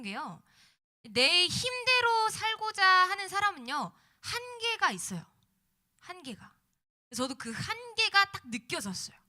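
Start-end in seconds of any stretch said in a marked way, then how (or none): 1.0-9.2 loud, rising preacher's exhortation; preaching. Acted. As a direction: preach it out to the congregation. Sermon climax, full-force preaching.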